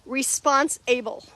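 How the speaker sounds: Response-able, slow, with a clear break between response and able; split into two words. Shown as a demonstration. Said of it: "we're gonna break up that word".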